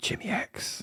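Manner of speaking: soft, hushed whisper. A host introduces the comic book review show's co-host, whispered. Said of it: "I whispered it".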